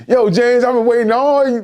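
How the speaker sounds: high, heated character voice; imitated sitcom confrontation. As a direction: lightly act out a TV showdown. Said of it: "like James Evans when he was like".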